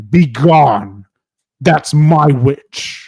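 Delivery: a hint of a four-headed beast; terrible monster voice. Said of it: "in a terrible voice".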